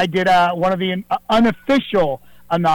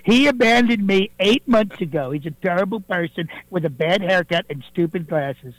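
Donald Trump voice; 2 semitones higher than usual. Acted. Impersonator on the radio mocking a critic, in Trump's voice. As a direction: fairly close Trump impersonation, scornful. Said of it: "not President Donald Trump".

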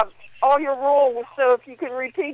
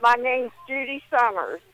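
mouth full. Real, not acted. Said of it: "I got my mouth full of gauze".

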